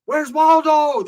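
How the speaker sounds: high, slow, loud taunting call; a jeering shout at the runner; mocking yell. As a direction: sing out the taunt across the yard. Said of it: "Everyone's yelling".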